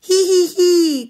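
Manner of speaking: high, gleeful hee-hee; squeaky mock laughter; little pigs laughing. A narrator's reading. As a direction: giggle tauntingly like piglets. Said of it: "laughed the three little pigs".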